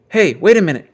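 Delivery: loud call to stop him. A narrator's reading. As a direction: shout after the cub who is leaving. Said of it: "called Too Tall".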